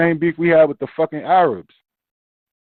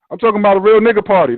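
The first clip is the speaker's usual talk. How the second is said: emphatic declaration; 3 semitones higher, 6 dB louder, faster than usual. Retold or imitated. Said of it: "And you say just that".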